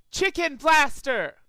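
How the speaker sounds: slow, loud, high war cry; battle cry. Acted. Rainbow Dash firing at the pigeon, slow loud battle cry. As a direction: bellow the weapon's name.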